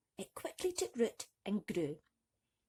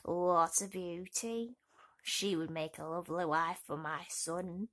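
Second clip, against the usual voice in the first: mild croaky toad; croaking toad; 2 semitones lower than usual. Acted. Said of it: "croaked the toad".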